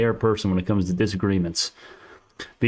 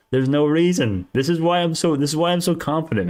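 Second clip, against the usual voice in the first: raised pitch, emphatic conviction; real, worked-up certainty; heated insistence; 6 semitones higher than usual. Real, not acted. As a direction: argue it hotly, pitch up. Heated defence of his own reasoning.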